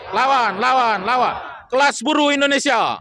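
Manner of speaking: rhythmic protest chant, rising to a shout; fiery revolutionary speech. Real, not acted. Rally chant to workers.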